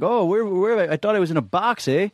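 lightly put-on Canadian accent, eh at the end; a Canadian voice, quoted in fun; mock Canadian. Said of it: "and you were like".

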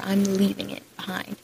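whispering. Pretend. Acted inner self-talk affirmation.

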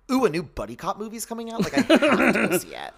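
high, loud mock excitement; gushing movie fangirl. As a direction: squeal it like an over-eager fan. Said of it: "like, a girl that's like".

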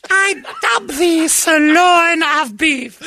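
high, slow shouted proclamation; royal knighting. Pretend. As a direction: bellow it like a pompous king. Mock knighting ceremony, shouted.

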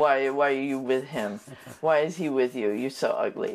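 low imitated French accent. Quoting the French visitor to the couple, low French accent. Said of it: "total French accent".

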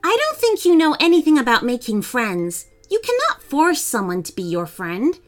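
bold, high-pitched storybook heroine; unafraid little girl. Acted. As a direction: stand up to the dragon firmly. Amy confronts the dragon.

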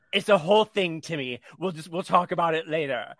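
mock mother putting off the question; imitated mother. Mother answering little Timmy on the plane, imitated put-off tone. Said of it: "And the mother says".

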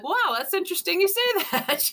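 laughing disbelief. Real, not acted. Reacting to ghost remark, amused.

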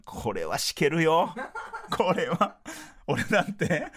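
words coming through real laughter; laughing while talking. Real, not acted. Radio host laughing while telling listeners about the cake. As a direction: giggle through the line.

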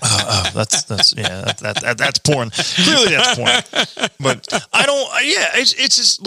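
talking through real laughter; laughing. Real, not acted. Joking about porn.

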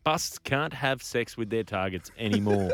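measured newsreader delivery; news read. Real, not acted. Host reads the next story to co-hosts, in news-reader style.

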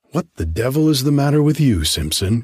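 loud, fast startled outburst; crying out. Acted. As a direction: blurt it out at his friend. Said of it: "cried Solling".

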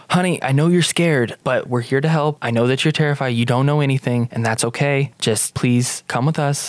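soothing plea in an everyday voice; normal voice, reassuring. Acted. Hope asks frightened girl to come along, reassuring normal voice. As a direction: drop the accent and gently reassure. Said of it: "talk with a normal voice with her".

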